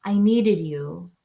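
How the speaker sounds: quiet, loving gratitude; tender thanks. Shown as a demonstration. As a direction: reassure your hands they are safe.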